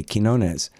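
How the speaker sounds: Quinones as kin-OH-nez, K at the start. Shown as a demonstration. Host corrects himself, Quinones with a K. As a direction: say Quinones with a hard K. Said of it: "It's more like a K".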